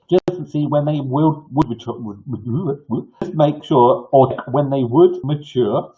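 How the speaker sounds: speaking without dentures; words slurred with no teeth in; toothless. Real, not acted. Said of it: "Sorry, I haven't got my teeth in this morning".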